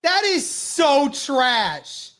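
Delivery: disgusted. Real, not acted. Outraged at penalty call.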